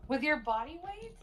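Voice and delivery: kitty voice. Pretend. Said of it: "a kitty voice".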